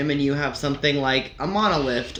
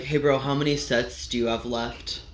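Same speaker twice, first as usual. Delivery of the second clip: lower, softer gym-bro question; mildly mock a bro asking for the equipment; imitating gym bro; 3 semitones lower, 5 dB quieter than usual. Gym-goer hovering for someone's bench, mock bro voice. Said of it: "One of my least favorite is".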